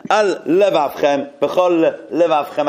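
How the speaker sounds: al levavchem and b'chol levavchem slowly, each l said on its own; separated lamets. Shown as a demonstration. Teacher slowly showing both lamets in al levavchem. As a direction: pause between al and levavchem, between b'chol and levavchem. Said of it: "You have to, two lamets".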